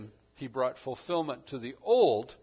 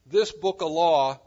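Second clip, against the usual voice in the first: "This book of law" said slowly, louder, leaning hard on "This"; emphatic stress; 9 dB louder than usual. Shown as a demonstration. Preacher stressing the law for the congregation, slow and heavy. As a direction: land heavily on "This" in "This book of law". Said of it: "the emphatic point".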